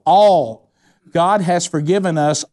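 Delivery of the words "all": leading the congregation to shout All; loud call-back. Shown as a demonstration. Preacher to congregation, a loud emphatic All. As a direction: punch out the word All louder, a call for the crowd to echo. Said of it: "Say it back".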